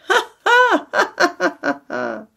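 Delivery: loud, high roaring ha ha; roaring laughter. A narrator's reading. The friends roar with laughter together, loud and high. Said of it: "roared out lustily".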